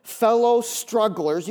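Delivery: slow dictation; said slowly. Shown as a demonstration. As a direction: read it slowly for note-taking. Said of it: "I'll say it slow".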